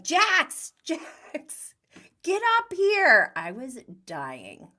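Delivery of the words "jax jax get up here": high, loud imitated yell across a room; retold yelling. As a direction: call him up like an annoyed husband. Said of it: "He just starts yelling".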